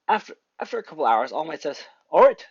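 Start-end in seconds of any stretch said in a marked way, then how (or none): 2.1-2.4 mentor's call to attention. Acted. All Might starts the test.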